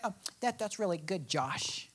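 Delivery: soft, low, unimpressed mumble; bored. Pretend. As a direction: shrug it off half-heartedly. Mock bored reader reaction.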